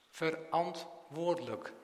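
Verantwoordelijk drawn out slowly, part by part; slow emphatic repeat. Real, not acted. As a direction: slowly spell out the weight of Verantwoordelijk. Repeats key word for emphasis.

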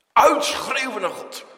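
loud, high preaching shout; crying out. Real, not acted. Preacher urging crying out to God, shouted loudly. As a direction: burst out at full force.

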